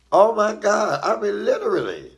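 high, loud exclaiming in a retelling; retold exclamation. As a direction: exclaim it high, reliving the shock. Retelling childhood terror, exclaiming.

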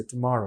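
"tomorrow" with a short schwa "tuh", stress on MOR; tiny first syllable in "tomorrow", then MOR; "tomorrow" as tuh-MOR-oh, barely aspirated t; weak first syllable. Shown as a demonstration. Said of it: "ছোট্ট করে বলছি".

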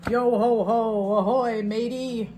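slow, loud pirate hail. Acted. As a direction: call it out like a pirate. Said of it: "I was trying to use a pirate voice".

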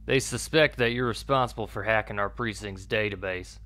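put-on lightly southern-accented captain. Captain confronts a suspected officer about a hack, southern accent. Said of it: "I gave him a southern accent".

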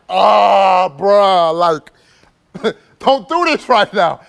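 retelling the moment his friend passed out, shouting; panicked yell. Retold or imitated. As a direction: yell at him not to do this now, half laughing.

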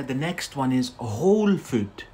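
whole food, said clearly for learners; "whole" said /hoʊl/ with a long o; model word. Shown as a demonstration. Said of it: "So be careful here".

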